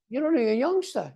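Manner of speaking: high-pitched, breezy retold reassurance; lightly voiced old man. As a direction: brush the worry aside as the old man, lightly played. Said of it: "An old man sitting on a bench".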